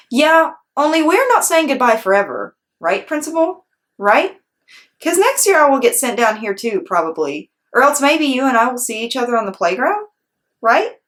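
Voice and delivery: put-on high, eager little girl begging; Junie B pleading. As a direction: coax him, high and hopeful.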